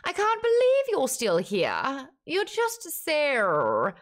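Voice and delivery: high, overwhelmed, near tears, slowing down; imitating the narrator's overwhelmed Ianthe voice. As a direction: gush at Harrow as if about to cry. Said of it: "that's how Ianthe talks".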